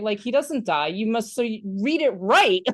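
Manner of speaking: lightly voiced child protesting; indignant grandson interrupting. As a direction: correct him like an upset kid. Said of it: "the grandson then interrupts".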